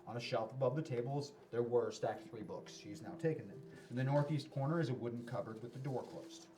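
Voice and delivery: measured descriptive read-aloud narration; game master scene setting. Acted. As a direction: set out the room item by item. Game master reads out the room.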